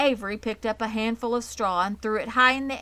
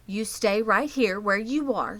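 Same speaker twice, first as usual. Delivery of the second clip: firm mother; 3 semitones higher, 4 dB louder than usual. A narrator's reading. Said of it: "said her mother".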